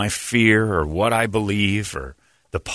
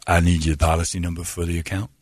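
phone agent; 5 semitones lower than usual. Retold or imitated. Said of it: "the dude on the line's like".

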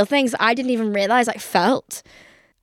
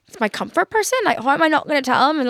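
defensive protest; 5 semitones higher, faster than usual. Retold or imitated. Arguing her excuse for calling ex.

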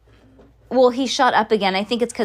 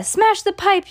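high-pitched yell, moderately raised volume; Missus Gloop yelling; 11 semitones higher, 3 dB louder than usual. A narrator's reading. Missus Gloop demands the pipe be smashed, high yell. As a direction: yell it up high, as a storybook outcry. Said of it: "yelled Missus Gloop".

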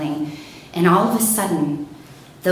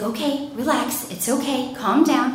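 calming officer; 5 semitones higher than usual. Retold or imitated. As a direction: talk a panicked caller down. Officer soothing panicked caller.

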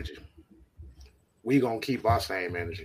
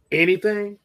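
loud emphatic; 10 semitones higher, 6 dB louder than usual. Real, not acted. Warning rivals, raised voice.

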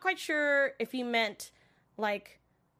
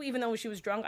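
usual speaking voice

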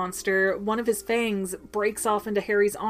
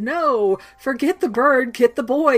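loud, furious order to the snake; villain's commanding shout; 3 semitones higher, 7 dB louder than usual. Retold or imitated. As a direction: bark it like a cornered dark lord. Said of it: "Voldemort's over there going".

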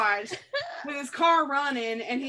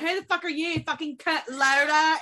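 mock British accent, higher-pitched; imitated British guy; 3 semitones higher than usual. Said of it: "you remember the British guy".

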